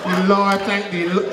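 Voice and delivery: lightly voiced grandmother repeating a pious refrain; religious grandmother. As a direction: draw out each "Lord" like a pious mantra. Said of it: "Every second word".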